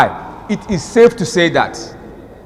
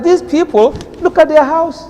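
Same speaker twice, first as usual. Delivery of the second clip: emphatic quote; 8 semitones higher than usual. Retold or imitated. Voicing Allah's taunt.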